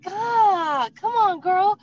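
high, loud cheering; fired-up encouragement. Retold or imitated. Hairdresser boosts client's confidence, loud excited cheering. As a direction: hype her up with full energy.

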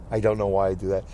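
ordinary talk

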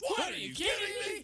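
high shouted show title; jingle shout. Acted. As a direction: yell the segment name.

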